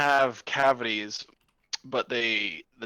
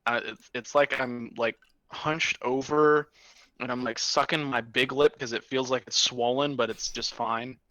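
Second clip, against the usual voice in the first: numb mouth. Real, not acted. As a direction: still numb from the dentist. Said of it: "my mouth is still numb".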